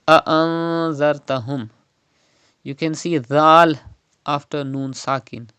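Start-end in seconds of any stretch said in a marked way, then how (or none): 0.1-1.7 "A'anzartahum" with a long nasal hum for n; Ikhfa with Gunna. Shown as a demonstration. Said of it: "Gunna will be done in Noon Sakin".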